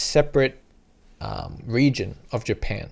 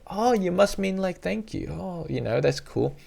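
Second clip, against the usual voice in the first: chill friendly staff; 6 semitones higher, 3 dB quieter than usual. Retold or imitated. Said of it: "they're gonna be, like, chill".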